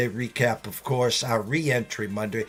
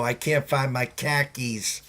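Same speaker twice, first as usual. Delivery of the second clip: slow Boston joke line, R-less vowels; Boston accent. Shown as a demonstration. Host playing along with chat's teasing, Boston accent. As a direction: say "khakis" like Boston "car keys". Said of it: "it's the accent".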